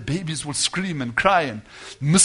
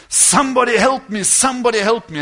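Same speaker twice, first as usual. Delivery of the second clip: higher, louder mock cry for help; retold scream; 5 semitones higher, 5 dB louder than usual. Wife calling for help as husband slumps, restrained retold scream. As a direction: mildly imitate a screamed plea, raised in pitch. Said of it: "she screamed out".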